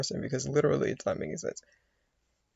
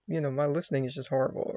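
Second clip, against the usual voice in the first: ordinary talk, nothing marked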